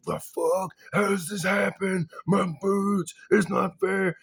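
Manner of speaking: put-on high, loud childish wail; childish upset. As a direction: whine it like a tantrumming child. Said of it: "very, very upset".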